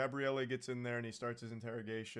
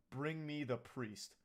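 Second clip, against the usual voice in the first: demon voice; slower than usual. Retold or imitated. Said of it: "horror movie demon voice".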